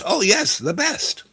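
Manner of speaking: high-pitched imitation of an eager woman; eager bluffer. Bluffing as a voiceover actor.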